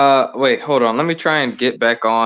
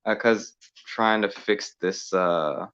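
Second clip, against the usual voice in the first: crappy phone audio; tinny phone line sound; over the phone. Real, not acted. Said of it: "So I'm on my phone right now".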